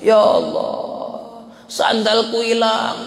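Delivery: mock wail, drawn-out first words; imitated weeping. Saint lamenting his lost sandals, imitated weeping. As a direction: stretch out a retold tearful lament. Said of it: "Nangis Bishr bin Haris".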